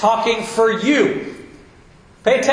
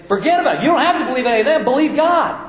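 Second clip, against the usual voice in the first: higher, brisk, eager comeback; eager reply; 6 semitones higher, faster than usual. Retold or imitated. Pastor answering the churchgoer, higher and eager. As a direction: toss it back with a laugh, keen.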